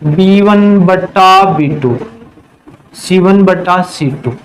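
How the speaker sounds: half-speed, syllables stretched out; slow dictation. Real, not acted. Teacher writing the ratio on the board, slow dictation.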